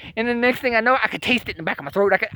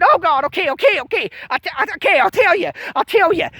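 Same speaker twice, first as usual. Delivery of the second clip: higher, pleading okay okay; panicked giving in; 7 semitones higher than usual. Retold or imitated. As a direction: beg them to stop, caving. Giving in under the probe.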